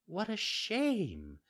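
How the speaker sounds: slow motherly fairy voice; fairy, gently scolding. Acted. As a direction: admonish a child patiently. Fairy figure lectures.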